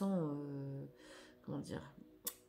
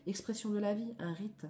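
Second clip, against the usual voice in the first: declamatory reading. Acted. Reads card text aloud.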